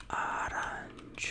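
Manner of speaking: arancione said slowly, a-ran-CHO-neh; Italian arancione. Shown as a demonstration. Teacher modelling arancione for learners. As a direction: spell out arancione syllable by syllable. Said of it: "So it's arancione".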